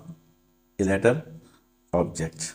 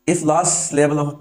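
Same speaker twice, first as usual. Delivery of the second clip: slow, stretched rule reading; slow dictation; 5 semitones higher, 3 dB louder, much slower than usual. Shown as a demonstration. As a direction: read the rule out slowly. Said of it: "dictating rule slowly". (धीमे नियम पढ़ना)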